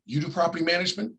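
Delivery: quick question rising on "property"; surprised question. Retold or imitated. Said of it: "No, I don't do property management".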